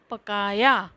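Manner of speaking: पकाया said whole and clear; teacher models पकाया after spelling it; model pronunciation. Shown as a demonstration. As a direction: give the final pronunciation पकाया. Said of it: "इसका उच्चारण होगा".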